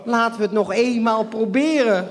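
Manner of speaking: high, loud shriek with a laugh. Acted. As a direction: screech it out, half laughing. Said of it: "gilde mijn moeder".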